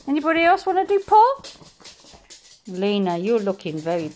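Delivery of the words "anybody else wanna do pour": high and fast, teasing the dogs; quick playful prompt. Real, not acted. Owner quickly asking the other dogs to do a trick, playful. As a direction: rattle it off brightly.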